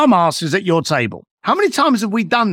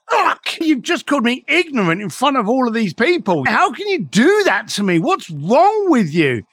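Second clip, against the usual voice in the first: higher-pitched, affronted protest; retold outrage, pitch jumping on the first word; mock indignation; 4 semitones higher than usual. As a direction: act out being embarrassed in front of everyone. Acted reaction to being called ignorant.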